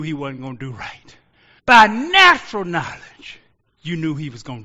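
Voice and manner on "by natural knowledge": higher, much louder shout on natural knowledge; preaching shout. Real, not acted. Preacher to congregation, a high loud shout. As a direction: hammer the phrase out. Preacher hammers key phrase.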